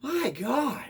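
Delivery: high, laughing, fake crying whine; mock whiny exasperation. Vlogger mocking his own reaction, high fake whine. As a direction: squeal it like a mock sob. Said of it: "I'm like".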